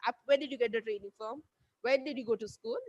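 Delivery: brisk, blunt demand, said fast without "Ma'am"; rude, demanding. Shown as a demonstration. Fan questioning a sports star impolitely, brisk and curt. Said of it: "You can't be like".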